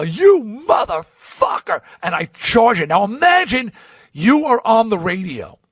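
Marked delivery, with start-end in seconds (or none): 0.0-1.8 high, drawn-out mock battle cry; enraged shout. Storming into Howard's dressing room, enraged shout. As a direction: bellow it long and high, storming in.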